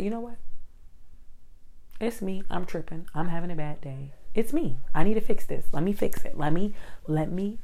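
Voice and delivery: self pep talk. Retold or imitated. Pep talk to herself, building.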